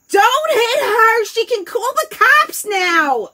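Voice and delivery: high, loud, slow alarmed shout; frantic parent yelling. Retold or imitated. Parent yelling at the other parent to stop, loud and high. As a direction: yell to stop the beating.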